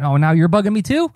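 high-pitched, put-upon inner voice; mock irritation. Inner reply to friends' chat messages, mock irritated. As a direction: act out being pestered, without shouting. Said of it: "I felt irritation".

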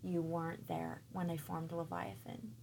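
softly, a mild gentle rebuke; a hint of God speaking tenderly to a child. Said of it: "very gently saying".

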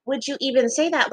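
livid, retold. Girl retelling her livid reply to a classmate, indignant. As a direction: reenact indignation without shouting. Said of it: "like, livid".

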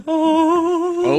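mock surprised gasp. Retelling character's reaction.

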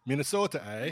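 mock Minnesota twang with a drawn eh; Minnesota accent. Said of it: "regional dialects".

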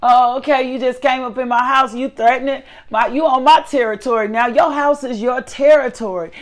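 confronting intruder. Retold or imitated. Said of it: "looking at him like".

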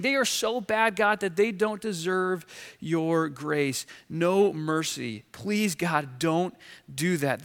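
Jonah. Acted. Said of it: "That's what Jonah's saying".

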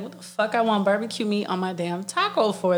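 laughing through a fake outraged rant. To her partner about barbacoa, a laughing indignant rant. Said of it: "I was like".

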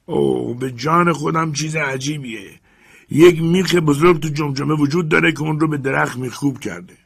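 amazed servant. Acted. Jupiter marvels.

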